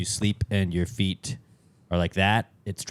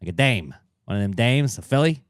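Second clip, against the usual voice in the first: put-on 1920s Midwestern accent. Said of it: "nineteen twenties Midwestern American accent".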